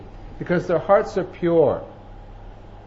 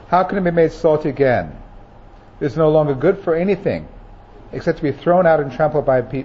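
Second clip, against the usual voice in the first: scripture reading; 2 semitones lower than usual. Acted. Preacher reading Jesus's words to the congregation, solemn and steady. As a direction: read the words of Jesus with weight.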